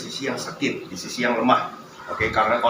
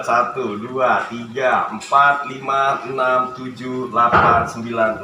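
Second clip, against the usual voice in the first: counting workout reps; 3 dB louder, slower than usual. Real, not acted. Counting reps during exercise.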